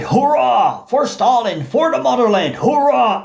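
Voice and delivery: a lightly voiced battle cry. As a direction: call it out like soldiers charging. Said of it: "They cried".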